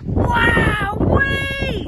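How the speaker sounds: high, loud gasp of wonder; long, high, thrilled whoop; amazed. A narrator's reading. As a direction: exclaim like an astonished kid. Child amazed at his bucket.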